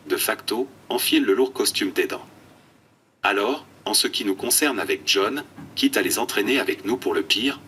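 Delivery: computer text-to-speech voice; flat synthetic speech from an eye-tracking tablet. Real, not acted. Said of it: "une voix de synthèse". (voix de synthèse robotique)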